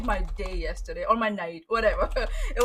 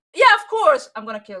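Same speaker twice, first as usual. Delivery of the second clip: mock sassy vampire voice, louder; 2 semitones higher, 9 dB louder than usual. Quoting the vampire character after calling him sassy: imitating a sassy vampire. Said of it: "can you get any more sassy?".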